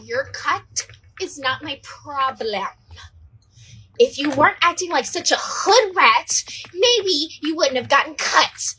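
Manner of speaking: slow, pointed mock scolding; nurse giving attitude. Nurse gets in injured girl's face, giving attitude. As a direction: spell it out slowly with contempt, as the nurse. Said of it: "giving her so much attitude".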